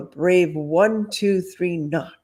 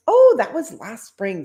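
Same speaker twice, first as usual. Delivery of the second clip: airy; 5 semitones higher, 5 dB louder than usual. Acted. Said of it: "said the gypsy airily".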